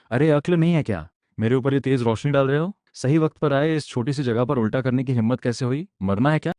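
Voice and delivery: indignant, pitch lifted on the questions; irritated scolding. Acted. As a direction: scold someone who dared to cross you. झगड़े में गुस्से से डाँट. (चिढ़कर डाँटते हुए)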